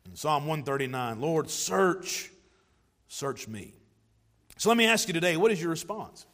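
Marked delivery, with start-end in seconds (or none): 1.2-3.7 quiet prayer. Acted. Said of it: "pray that prayer".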